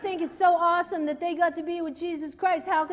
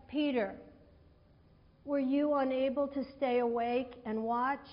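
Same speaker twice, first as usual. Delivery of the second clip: gentle; 4 semitones lower, 5 dB quieter than usual. Shown as a demonstration. Gentle reading of Jesus to Peter.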